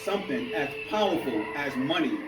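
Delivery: measured spoken-word delivery with pauses between phrases; spoken-word poem in rhythmic phrases; poetry recital. Acted. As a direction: perform the poem, lifting each refrain then letting the phrase fall. Reads his poem aloud.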